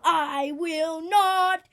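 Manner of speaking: child playing a grumpy crocodile. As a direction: growl it out like a mean crocodile. Crocodile voiced in a quarrel.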